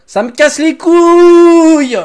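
long, slow, high scream of frustration; drawn-out furious yell. Real, not acted. Gamer screaming his frustration at the game. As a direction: stretch every word into a howl.

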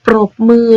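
ปรบมือ with the r sounded after the p; clear r cluster. Shown as a demonstration. Teacher modelling a true cluster for pupils, r clearly sounded. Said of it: "เราต้องอ่านออกเสียงตัวรอเรือ".

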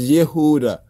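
"Yehuda" with a short YEH at the start; "Yehuda" opening on an eh vowel; corrected form Yehuda. Shown as a demonstration. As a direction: say "Yehuda", first syllable "yeh".

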